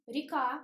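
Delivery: "Река" as ri-KA, stressed final A; unstressed Е as И. Shown as a demonstration. Teacher repeating after the rule, "Река" with reduced i vowel. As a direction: say the е in "Река" as a short i. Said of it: "but we pronounce И".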